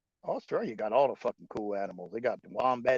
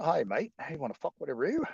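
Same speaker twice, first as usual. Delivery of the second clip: fast taunting Aussie voice; cheeky kangaroo picking a fight; mock Aussie roo; 5 semitones higher, faster than usual. Kangaroo taunting a passerby, light mock Aussie.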